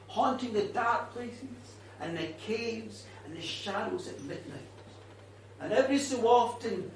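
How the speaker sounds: a bitter ghost telling her story, often hushed; a hint of an old Irish ghost, brooding; vengeful ghost woman. Witch tells her own story.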